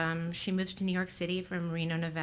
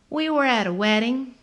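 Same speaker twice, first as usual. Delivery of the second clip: higher, lively woman's voice; 5 semitones higher, 8 dB louder than usual. A narrator's reading. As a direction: voice her high and bright.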